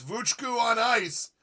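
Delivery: circus-style title call; show announcer. Pretend.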